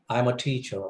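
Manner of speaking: plain statement with the pitch falling at the end of "I'm a teacher.". Shown as a demonstration. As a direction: let "teacher" drop in tone to close the statement. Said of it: "It's a falling tone".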